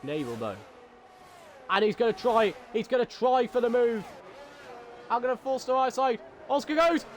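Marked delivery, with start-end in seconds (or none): 1.7-7.0 raised-pitch live play-by-play; keyed-up motorsport commentator; excited race commentary. Real, not acted. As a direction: call the racing action with rising excitement.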